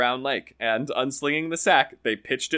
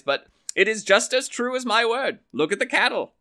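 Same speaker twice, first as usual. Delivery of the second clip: lively higher voices for Donald and the farmer, trading lines; storyteller's character voices; 5 semitones higher, 3 dB louder than usual. Acted. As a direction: play the Irish tale's quarrelling characters with a raised voice. Donald boasts to the brothers.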